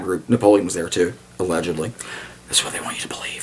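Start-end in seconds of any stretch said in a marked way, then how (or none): 2.5-3.4 hushed, unvoiced conspiracy whisper; conspiratorial whisper. Joking about Napoleon, a mock conspiracy whisper. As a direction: lean in and whisper the secret. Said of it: "I'm kidding".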